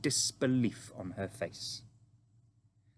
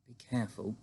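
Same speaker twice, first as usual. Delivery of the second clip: soft, inward caution; hushed self-warning; talking to herself; 5 dB quieter than usual. Acted. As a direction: murmur a warning to yourself. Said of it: "the Queen told herself".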